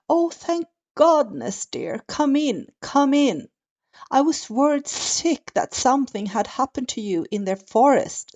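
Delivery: high, sweet granny voice, relieved; old grandma voice. Acted. Grandma greets her granddaughter at the door, relieved and high.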